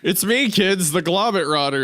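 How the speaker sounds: put-on a bit of a cheeky creature greeting the kids; gremlin voice. Joking about a misread username, in a goofy gremlin voice. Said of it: "It's like a gremlin looking guy".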